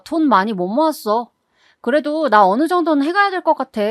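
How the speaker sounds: mildly pushy, entitled daughter; pressing. Acted. Daughter texting her mother for wedding money, pressing. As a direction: press for money as if it's owed. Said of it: "딸은 또다시 닥달하듯 문자를 보내왔어요".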